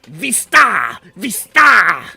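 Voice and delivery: loud, high barked orders; commanding devil shout. Acted. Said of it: "points at the group and says".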